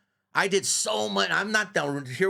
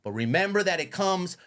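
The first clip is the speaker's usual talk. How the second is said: higher, revved-up retelling of his own words; hyped-up quote; 6 semitones higher than usual. Retold or imitated. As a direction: pump him up, cracking high on Liz. Retelling pep talk to Raul.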